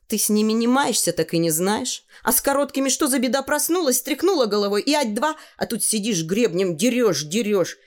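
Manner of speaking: lightly voiced girl, animated griping; chatty girl, complaining. Tanya complains to the boy about combing long hair, exasperated.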